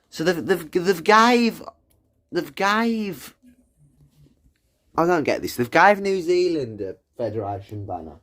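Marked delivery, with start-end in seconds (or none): 0.1-3.4 high, stammering outrage; disbelieving sputter. Real, not acted. Gamer sputtering at Epic Games' banner choice, disbelieving. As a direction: repeat it higher, unable to believe it.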